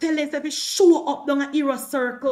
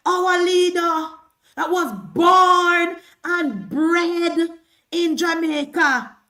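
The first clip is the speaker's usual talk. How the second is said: sarcastic; 5 semitones higher, 6 dB louder, slower than usual. Real, not acted. Sarcastic praise of rival leader.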